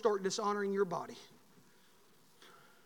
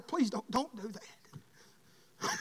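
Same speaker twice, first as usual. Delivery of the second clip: quiet plea; 7 dB quieter, much slower than usual. Acted. Parent pleading, voiced.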